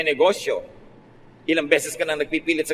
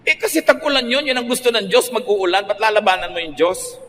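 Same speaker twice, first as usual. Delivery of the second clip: excited rebuke; 5 semitones higher than usual. Real, not acted. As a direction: push back hard on them. Preacher's rhetorical rebuke.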